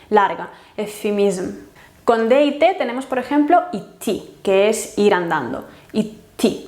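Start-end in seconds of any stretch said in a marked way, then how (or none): 0.8-1.7 "eufemism" with a soft, lengthened f; soft long F. Shown as a demonstration. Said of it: "una especie de F suave". 5.9-6.6 "Iti" with a held t closure; long T. Shown as a demonstration. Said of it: "como una T larga".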